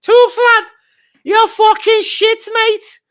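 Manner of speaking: very high, loud drawn-out jeer; imitating jeering rival fans. Everton fans taunting him at full time, shrill loud jeering. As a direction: yell the taunt slowly, way up high. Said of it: "them man started having fun".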